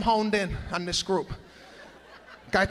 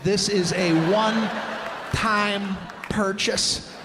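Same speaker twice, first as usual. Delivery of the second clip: mock disbelief; slower than usual. Mocking the Band-Aid guy.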